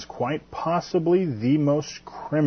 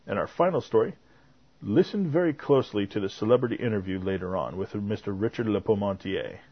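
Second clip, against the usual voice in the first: measured podcast newsreader delivery; news read; 4 dB quieter than usual. Acted. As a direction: read it out as a tidy news bulletin. Reads the podcast's news segment.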